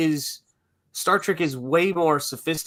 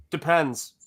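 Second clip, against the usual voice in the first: deadpan. Retold or imitated. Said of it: "deadpan into the crowd".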